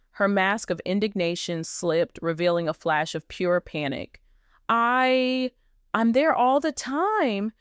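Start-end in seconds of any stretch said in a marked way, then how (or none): 4.7-7.5 halting, slow panicked stammer. Acted. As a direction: stumble over the words in panic. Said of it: "she stammered".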